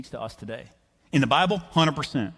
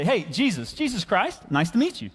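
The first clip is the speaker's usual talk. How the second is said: lightly acted, higher-pitched awe; a mock meet-the-celebrity hello; starstruck greeting; 6 semitones higher than usual. Fisherman meeting Jesus, mildly starstruck.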